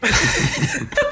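high burst of laughter. Real, not acted. Co-host amused by the moustache remark, laughing.

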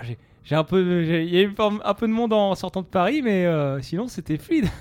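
chirpy, pushy tourist; French tourist. Acted. French tourist arriving at the station, chirpy and pushy. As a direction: greet everyone like a smug tourist.

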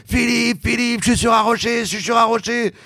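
high calling out; retold cry. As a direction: call across the waves. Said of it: "j'entends Jacques qui crie".

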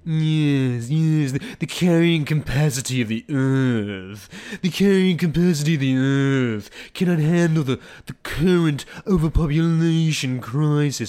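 a lightly voiced mock of a lofty royal, yes, yes; a hint of a pompous king lecturing; mocking King Charles. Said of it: "and he talks like this".

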